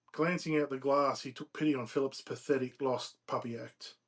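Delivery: measured, emphatic read-aloud narration; storyteller reading from a novel; story narration. A narrator's reading. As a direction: read the tale out phrase by phrase. Reads novel excerpt aloud.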